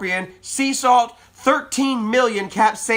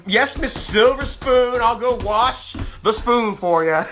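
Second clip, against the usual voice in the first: mock servant; slower than usual. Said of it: "she wants me to".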